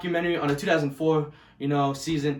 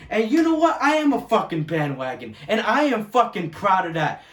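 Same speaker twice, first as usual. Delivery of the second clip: defiant retort; 3 semitones higher, 4 dB louder than usual. Real, not acted.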